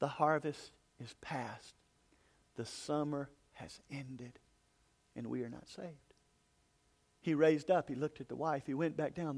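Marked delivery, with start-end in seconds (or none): 0.0-5.9 faint, low, weak, feeble dying voice. Telling of a preacher kneeling by a dying man, imitating the man's faint voice. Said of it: "he could hear a faint voice going".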